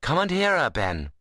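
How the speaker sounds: high start falling away, friendly dialect; good-humoured. A narrator's reading. Seth invites Ben to the preaching, good-humoured. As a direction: invite him along cheerfully. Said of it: "said Seth good-humouredly".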